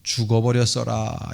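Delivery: lightly imitated Jeolla accent; a touch of southwestern Korean Jeolla dialect. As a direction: say it as Jeolla locals would. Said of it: "전라도 사람들은".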